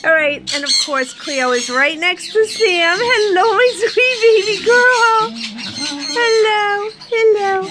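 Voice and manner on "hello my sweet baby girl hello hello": sweet pet talk. Real, not acted. Greeting her pet bird.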